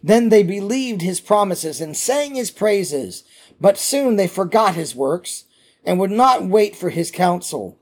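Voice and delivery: measured, emphatic Bible reading; scripture reading. Acted. Teacher reading a psalm to his class, solemn scripture reading. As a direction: read it out deliberately to a congregation.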